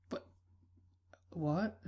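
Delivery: breathless whispered what; stunned whisper. Acted. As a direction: barely voice it in shock. Stunned by date news.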